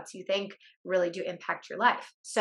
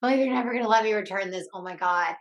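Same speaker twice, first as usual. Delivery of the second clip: panicked spiraling; 3 semitones higher, 4 dB louder than usual. Retold or imitated. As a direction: blurt it out in alarm, fast. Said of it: "So now I'm spiraling".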